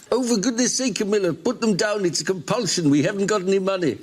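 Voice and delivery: acted, fussed reprimand; exasperated scolding. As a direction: scold your wife, voice lifted. Husband scolds wife for pilfering.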